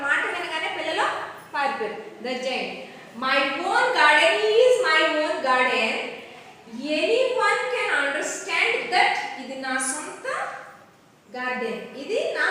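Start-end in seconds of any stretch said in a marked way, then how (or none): 3.2-9.1 loud, emphatic acted declaration; giant's declaration. Giant claiming his own garden, loud declaration. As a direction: stake your claim firmly, voice raised.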